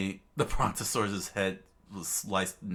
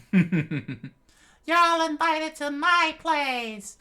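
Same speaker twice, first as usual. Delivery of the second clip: jolly giant; 9 dB louder, much slower than usual. Acted. Giant invites them, laughing.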